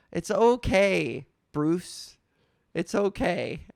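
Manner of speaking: mock consoling. Acted consoling of stubborn fan.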